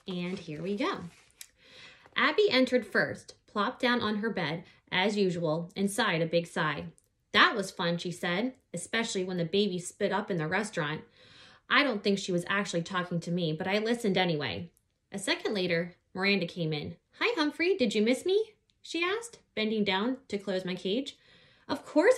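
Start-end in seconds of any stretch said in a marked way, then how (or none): 2.2-16.9 put-on lively read-aloud voice for children; story narration. A narrator's reading. Reading a children's book aloud. 17.2-18.5 Miranda voice. Acted. Miranda greets the hamster. 18.8-21.2 put-on lively read-aloud voice for children; story narration. A narrator's reading. Reading a children's book aloud. 21.7-22.2 high, loud little squeak from the hamster. Acted. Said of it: "I squeaked".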